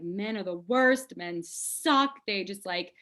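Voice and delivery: venting in a high, rapid-fire tirade; frustrated rant. Retold or imitated. Woman venting on the phone to her best friend, frustrated. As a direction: re-enact an exasperated outburst, pitch climbing. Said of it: "I was so frustrated".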